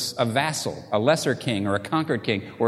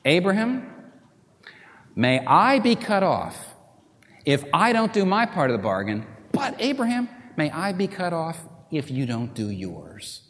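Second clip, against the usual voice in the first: God's solemn oath; 3 semitones higher than usual. Acted. God's covenant oath voiced.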